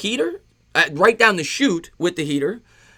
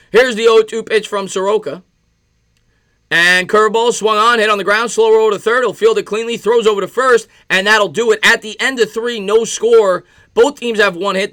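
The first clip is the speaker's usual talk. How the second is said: louder, higher broadcaster call of the grounder; live play-by-play; 4 semitones higher, 5 dB louder than usual. Acted. Streamer calling the Mets inning for his viewers, lively announcer voice.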